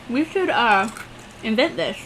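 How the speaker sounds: talking while chewing ice; words round a mouthful of ice. Real, not acted. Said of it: "I'm chewing ice".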